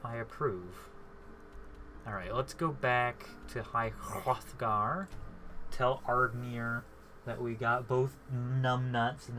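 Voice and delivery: slow, snooty growl of a bulldog. Pretend. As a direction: talk like a haughty bulldog. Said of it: "You sound like a snooty bulldog".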